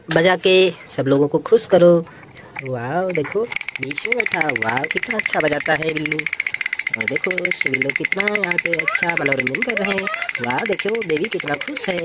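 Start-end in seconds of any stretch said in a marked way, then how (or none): 2.6-12.0 hushed, softer cooing over the toys; gentle hushed delight at the drummer; soft praise. Pretend. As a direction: coo softly like to a baby. Drummer toy playing, soft praise.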